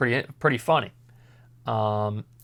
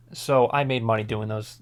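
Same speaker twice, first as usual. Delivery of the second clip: ordinary delivery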